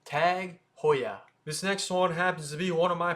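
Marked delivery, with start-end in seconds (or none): 0.0-1.2 Tag Heuer as tag HOY-ah; correct pronunciation. Shown as a demonstration. Teacher repeats for viewers, correct pronunciation. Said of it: "it is what it is".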